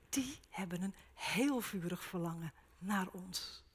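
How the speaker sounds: preacher assuring the group of God's longing; tender whisper. Acted. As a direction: breathe it as a loving promise.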